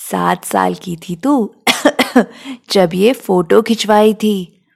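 a hint of an old grandmother, slow and coughing; lightly voiced granny, slow and fond; slow, tender grandma voice between coughs. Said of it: "खांसती हुई दादी ने ... प्यार से".

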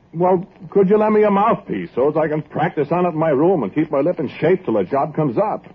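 high-pitched, eager request; earnest plea. Acted. Trumpeter asking to borrow a mouthpiece, pleading.

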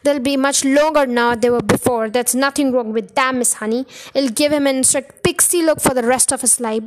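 loud domineering Trunchbull voice; overbearing headmistress lecturing; bossy headmistress. Acted. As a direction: lecture the teacher like a bully.

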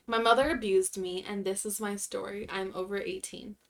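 even, measured read-aloud; subdued narration of a written story. Acted. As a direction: read a sad submission plainly and steadily. Reads a submitted sad story.

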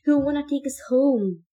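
high, loud mad rant; manic ranting. Acted. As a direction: rave it out of control. Ben ranting madly.

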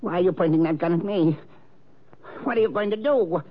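rising, hurried terror at the gun; frightened plea. Acted. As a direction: beg in panic, voice climbing high. Man held at gunpoint.

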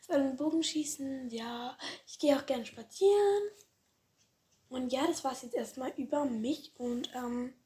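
hoarse, worn-out voice. Real, not acted. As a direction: speak through a hoarse throat. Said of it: "ich bin irgendwie voll heiser".

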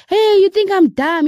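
high-pitched mock yell; retold shouting. Wife challenging the stranger on the phone, retold shouting. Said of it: "the woman shouted at me".

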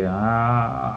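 long, soft open-mouthed "aah"; snuff-induced gasp. Acted. Teacher savouring snuff in his nose, drawn-out aah. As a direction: draw out a snuff-taker's aah.

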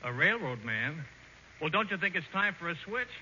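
ordinary talk, nothing marked

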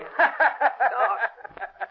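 high, gloating laugh; mocking cackle at a victim; evil laugh. Gunman taunts burned Blackie.

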